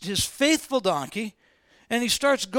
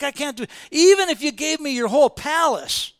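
emphatic refusal; 7 semitones higher, 7 dB louder than usual. Retold or imitated. Balaam refusing the king.

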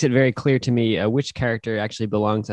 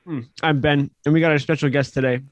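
talking while eating; words round a bite of pickle; mouth full. Real, not acted. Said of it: "sorry, I'm eating a pickle".

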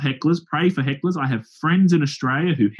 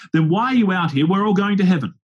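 mock triumphant heckler; 6 semitones higher than usual. Heckler springing his trap on the preacher, gloating higher. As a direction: push it up high like a heckler who thinks he's won.

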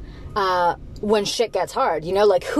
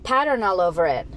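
pouty, entitled whining about wrapping paper; hammed-up petulant kid; whiny spoiled gift receiver; 3 semitones higher than usual. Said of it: "are you gonna be like".

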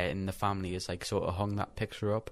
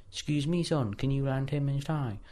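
higher-pitched imitation of a polite request; photo lady's voice; 6 semitones higher than usual. Lady asks a boy to lend his tie, higher-pitched imitation.

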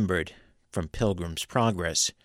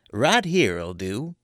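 higher, satisfied folksy hillbilly; gloat, pleased and coaxing; pleased old sorcerer; 4 semitones higher, 5 dB louder than usual. A narrator's reading. Teague voiced by narrator.

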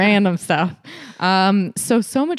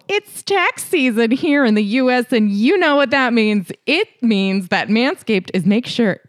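lively, pitched-up sponsor read; podcast ad read; 3 semitones higher than usual. Real, not acted. Host pitching tax-season grooming deals to ladies, playful ad read. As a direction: sell it to the listeners with playful emphasis.

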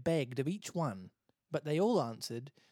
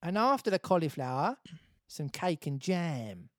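Essex lady sweetening the deal; TOWIE Essex accent; 3 semitones higher than usual. Acted. Water lady adding a last bribe, TOWIE Essex accent. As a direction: tempt him in TOWIE Essex. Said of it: "Can you make her towie".

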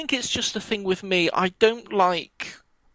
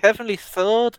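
Yorkshire accent; 5 semitones higher, 3 dB louder than usual. Shown as a demonstration. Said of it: "like, a Yorkshire accent".

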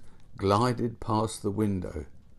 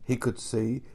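usual speaking voice

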